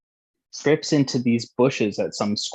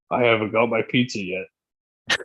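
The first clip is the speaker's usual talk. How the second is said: mock belligerent drunk. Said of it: "his style is, I'm gonna be a fucking belligerent drunk".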